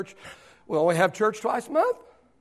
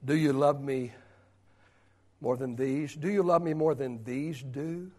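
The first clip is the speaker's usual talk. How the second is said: much lower and softer, gentle questioning; quiet Jesus voice; 3 semitones lower, 8 dB quieter than usual. Acted. Jesus softly questioning Peter before the disciples, hushed. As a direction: ask Peter softly, searching him. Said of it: "pointed at the other disciples and said".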